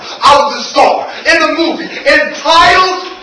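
dramatic, rhythmic poetry delivery; spoken-word poem. Acted. Poet telling of street life and addiction, spoken-word performance. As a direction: punch the key words, let phrases hang.

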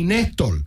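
put-on Nestor said mom's accented way, the s softened; accented name. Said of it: "accented version of Nestor".

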